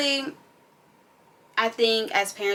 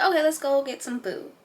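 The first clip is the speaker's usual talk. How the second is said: cheery mom voice; 7 semitones higher than usual. Retold or imitated. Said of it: "I was like".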